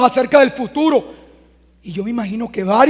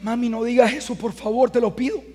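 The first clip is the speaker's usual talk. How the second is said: softer, gentle plea to mom; pleading with mother; 5 dB quieter than usual. Retold or imitated. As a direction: ask her softly, begging her to stop. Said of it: "me toca decirle".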